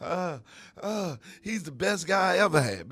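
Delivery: a hint of a woman's voice; lightly voiced bragging girlfriend; mock woman quote. A man quotes a woman boasting about her partner, lightly voiced. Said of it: "hear a chick say that".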